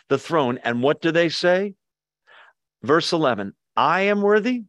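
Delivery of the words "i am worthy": proud, raised "I am worthy"; mock boast of "I am worthy"; wrong version. Shown as a demonstration. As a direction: say "I am worthy" high and self-satisfied. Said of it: "Is that what it says? No".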